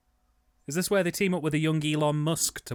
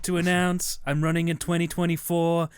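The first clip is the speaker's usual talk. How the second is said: politician announcement. Pretend. Mock campaign announcement.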